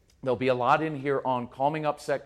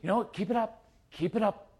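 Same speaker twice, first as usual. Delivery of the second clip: sarcastic yelling; 5 semitones higher than usual. Retold or imitated.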